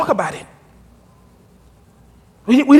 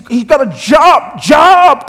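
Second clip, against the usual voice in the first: a shouted, higher "job"; excited shout; 4 semitones higher, much slower than usual. Retold or imitated. Churchgoer telling the pastor about her boyfriend, shouting with excitement. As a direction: gush about him getting a job. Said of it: "and you say, "Well, Pastor".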